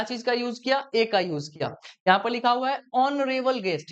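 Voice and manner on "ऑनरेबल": ऑनरेबल begun on the O sound, H silent. Shown as a demonstration. Teacher showing students the article rule, silent H in ऑनरेबल. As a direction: say ऑनरेबल with no H at the start. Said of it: "यहां पर silent होता है".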